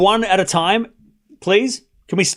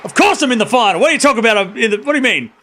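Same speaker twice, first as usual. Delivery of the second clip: mock defiant player; 4 semitones higher than usual. Streamer voicing the winner answering doubters, lightly cocky. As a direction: voice the player mocking her doubters. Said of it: "She's like".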